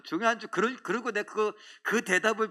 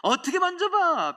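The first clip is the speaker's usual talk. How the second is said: much higher mock old woman's retort; elder's reply repeated; 11 semitones higher, 6 dB louder than usual. Preacher re-voicing the elder's answer, much higher. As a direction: squeak it up as the elder did. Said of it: "잘했어요".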